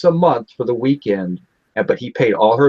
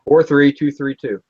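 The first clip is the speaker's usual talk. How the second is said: each digit slower and spelled out; slower, clearer repeat; slower than usual. Real, not acted. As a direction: repeat it slowly so it is understood.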